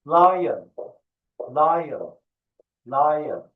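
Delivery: lion said clearly as "lai-an"; lion, repeat it like a teacher; lion for kids to echo; model pronunciation. Shown as a demonstration. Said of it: "repeat after me".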